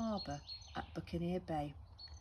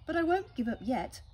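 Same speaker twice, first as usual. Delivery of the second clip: determined parrot; 7 semitones higher, 6 dB louder than usual. Acted. Polly determined.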